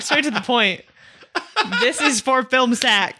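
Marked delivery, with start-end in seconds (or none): 1.8-3.2 deadpan imitation. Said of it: "I love that".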